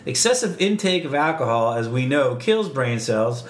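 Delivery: bad Boston accent as Cliff Clavin; hammed-up Boston know-it-all. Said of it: "worst Boston accent".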